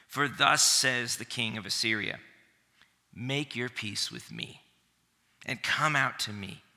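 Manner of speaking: reads the Assyrian envoy's taunt aloud with weight; dramatic Bible reading; scripture reading. Acted. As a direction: proclaim it like a boastful herald.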